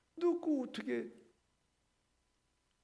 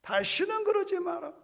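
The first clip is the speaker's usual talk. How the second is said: stern parent warning; 9 semitones higher, 3 dB louder than usual. Retold or imitated.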